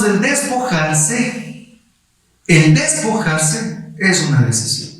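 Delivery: slow, stretched preacher's emphasis; drawn-out sermon stress; preaching emphasis. Acted. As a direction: lean on it like a pulpit point. Preacher drives home the point.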